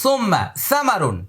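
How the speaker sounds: high, slow Arabic 'সুম্মা সামারুন'; slow Arabic recitation; Arabic pronunciation. Retold or imitated. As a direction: recite it the Arab way. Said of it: "আরবরা তিন জায়গায় জিহ্বা লাগায়".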